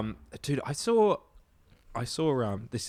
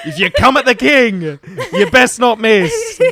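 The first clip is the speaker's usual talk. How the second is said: menacing quote; 6 semitones higher, 7 dB louder than usual. Acted. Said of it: "and goes".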